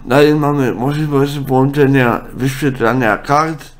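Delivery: ordinary delivery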